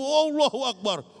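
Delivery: high, slow, ringing Allahu Akbar; called takbir. Real, not acted. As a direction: call it out to rouse the crowd. Preacher calls takbir mid-sermon. (takbir lantang dan pelan)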